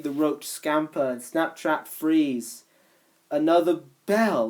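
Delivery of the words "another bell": stammering. Acted. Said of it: "he started stammering".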